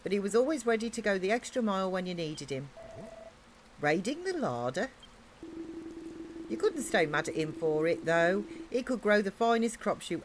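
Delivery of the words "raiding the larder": an amused, incredulous echo of "Raiding the larder?"; amused disbelief. Real, not acted. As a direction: echo "Raiding the larder?" with a rising, questioning lift on "larder". Echoing the line in disbelief.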